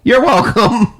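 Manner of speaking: high, earnest you're welcome; imitating the comic's sincere you're welcome; oblivious you're welcome. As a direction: say it sincerely, as if owed thanks. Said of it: "he was just like".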